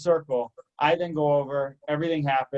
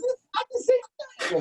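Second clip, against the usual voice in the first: very high squeaky mock outrage; squealed indignant objection; outraged protest. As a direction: imitate a coworker protesting at a high pitch. Retold quarrel at its peak.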